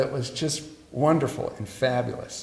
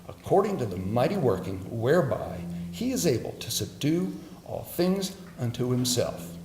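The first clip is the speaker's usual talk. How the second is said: hushed graveside prayer. Real, not acted. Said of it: "I want to pray it right now".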